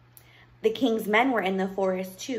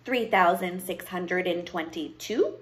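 slow, measured count with a rising last word; witch counting; 2 semitones lower than usual. Acted. Witch counts her pieces of gold, absorbed. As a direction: count coins slowly, unhurried.

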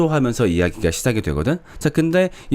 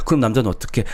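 ordinary talk, nothing marked

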